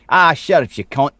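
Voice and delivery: lightly imitated Aussie retort; mock Australian. Aussies answering a Twitter insult, mock Australian accent. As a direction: toss it off as a joking Australian. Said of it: "and they're like".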